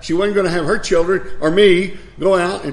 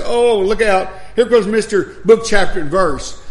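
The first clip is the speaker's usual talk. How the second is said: mildly mocking jeer, a little raised. Scoffers jeering at a stickler for scripture, mildly mocking. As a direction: lightly imitate scoffers announcing someone. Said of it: "laugh at you and mock you".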